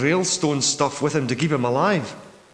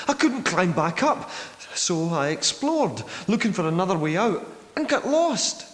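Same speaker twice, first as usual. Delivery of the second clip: higher-pitched, rising distress on key words; distressed recollection; 4 semitones higher than usual. Acted. Trapped survivor recounting the collapsed cave, distressed. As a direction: relive getting trapped.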